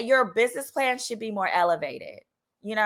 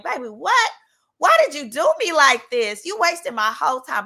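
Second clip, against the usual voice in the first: exasperated complaint; 4 semitones higher, 4 dB louder than usual. Retold or imitated. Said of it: "I was like".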